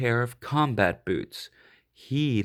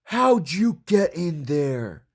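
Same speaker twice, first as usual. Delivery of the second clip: gruff dog; 4 semitones higher, 4 dB louder, slower than usual. Acted. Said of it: "said Mike".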